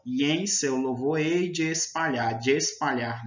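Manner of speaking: "E em" glided into one syllable, "de espalhar" linked; verse reading with "de espalhar" said as one word; linked vowels in reading. Shown as a demonstration. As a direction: recite slowly, running "de espalhar" together. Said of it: "Você também junta na, na leitura".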